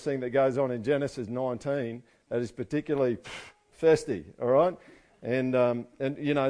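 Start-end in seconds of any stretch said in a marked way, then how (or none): 3.2-3.3 lip-blown "pff" of mild distaste; puff of air. Real, not acted. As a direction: blow air through the lips, searching for the word. Hesitates before naming something unsavoury.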